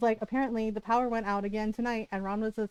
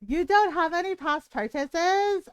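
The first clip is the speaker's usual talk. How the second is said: mock-apologetic system notice, slightly high; lightly mimicked computer apology; website error message; 4 semitones higher than usual. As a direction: draw it out like a mocking error message. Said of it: "It said".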